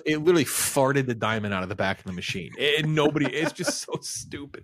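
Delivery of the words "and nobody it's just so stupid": exasperated laughter. Real, not acted. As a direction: voice dissolving into breathy, whispery laughter. Exasperated laughing at absurd movie scene.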